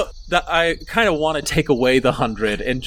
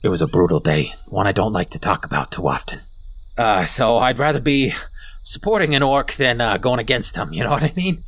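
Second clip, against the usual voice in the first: lightly voiced kobold, lower at first; a hint of a battle-scarred kobold; brooding kobold survivor; 4 semitones lower than usual. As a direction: understate a painful memory, grimly. GM voices wounded kobold leader.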